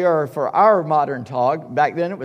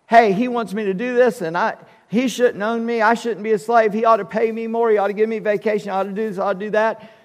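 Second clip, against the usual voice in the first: mock grumbling employee; 3 semitones higher than usual. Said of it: "Instead of having that attitude".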